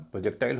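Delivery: प्रोजेक्टाइल with a full "pro"; rounded o in the first syllable of प्रोजेक्टाइल; candidate pronunciation. Shown as a demonstration. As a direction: say प्रोजेक्टाइल as "pro-jek-tail". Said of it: "हम देखेंगे इसका उच्चारण".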